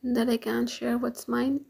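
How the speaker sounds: mocking question rising on mine; incredulous echo. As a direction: throw his words back with a rise on "mine". She echoes his words back.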